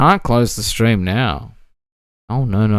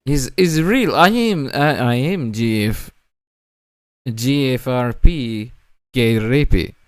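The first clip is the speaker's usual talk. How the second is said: mock French Canadian accent. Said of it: "not quite French Canadian accent".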